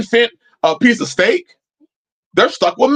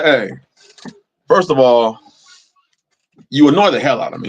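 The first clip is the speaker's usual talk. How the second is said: mock annoyed; 7 semitones lower than usual. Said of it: "It's how I talk to him sometimes".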